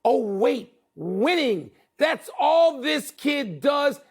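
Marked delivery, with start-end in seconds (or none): 2.0-4.0 heated. Real, not acted. Defending Hurts heatedly.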